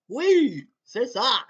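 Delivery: loud, high French cheer; excited French exclamation. Acted. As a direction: blurt it out like a Québécois fan. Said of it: "Sorry, I'm Canadian".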